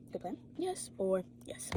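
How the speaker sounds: slow breathy whisper, teasing; whispered tease. Real, not acted. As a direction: coax yourself, whispering slowly. Teasing self-question whispered.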